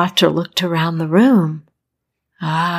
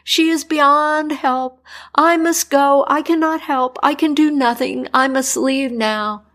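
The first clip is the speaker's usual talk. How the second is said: higher, anxious doctor voice; distressed doctor; 6 semitones higher than usual. Acted. Doctor refusing to save the princess, higher and anxious. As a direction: refuse with fear, pitched up.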